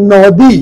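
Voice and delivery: নদী stretched as "no-dii"; drawn-out pronunciation. Shown as a demonstration. Teacher introduces the word, নদী drawn out slowly. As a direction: lengthen both vowels of নদী. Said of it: "এটা উচ্চারণ করি আমরা".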